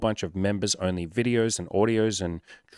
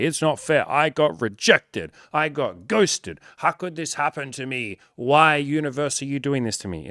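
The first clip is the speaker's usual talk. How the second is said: higher, slow, whining self-pity; mock tantrum; 6 semitones higher than usual. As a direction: wail at the universe like a sulking child. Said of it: "throw a big tantrum and say".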